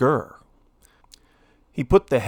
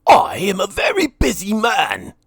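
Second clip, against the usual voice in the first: higher, louder indignant shout; greedy lord shouting; 9 semitones higher, 4 dB louder than usual. A narrator's reading. Lord Gurr sending Minnie away, loud shout. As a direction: yell him off the doorstep. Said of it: "he shouted".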